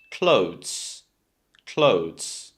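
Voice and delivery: "clothes" in one syllable, klohdhz; correct clothes. Shown as a demonstration. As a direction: say "clothes" with no extra vowel. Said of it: "The correct option is B".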